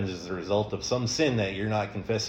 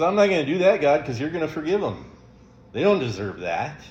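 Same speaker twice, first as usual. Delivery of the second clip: defiant Jonah; 6 semitones higher, 3 dB louder, faster than usual. Retold or imitated. Jonah refusing God, voiced.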